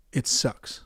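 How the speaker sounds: a flat unvoiced whisper; whispered it sucks; whispered dismissal. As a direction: breathe it out like a verdict. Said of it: "has been like".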